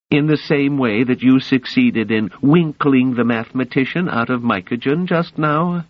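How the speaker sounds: mocking ruler's cold taunt; cold rasping evil emperor. A narrator's reading. Emperor voiced in story.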